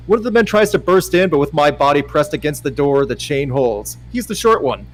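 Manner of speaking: brisk, lively audiobook narration; story narration. Acted. Narrator describing two men at the door, lively storytelling. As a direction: read the tense scene briskly. Reads a romance novel aloud.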